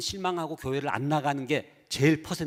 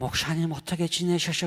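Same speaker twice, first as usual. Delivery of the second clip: imitated overly kind, sweet, soft, gentle voice. Retelling how a woman's mother greets the pastor at church, imitating an overly kind, soft voice. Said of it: "너무 친절한 부드러운 발음".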